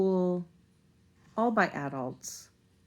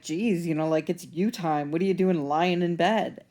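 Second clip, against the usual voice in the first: scoffing; 5 dB louder than usual. Retold or imitated. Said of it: "scoffed at her a little bit".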